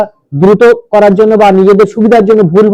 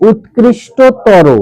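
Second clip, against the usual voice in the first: উৎকৃষ্টতর slowly in separated chunks; slow pronunciation; much slower than usual. Shown as a demonstration. Teacher gives the next word to pronounce, slow and segmented. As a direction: spell out উৎকৃষ্টতর by sound. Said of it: "তাহলে উচ্চারণ করো".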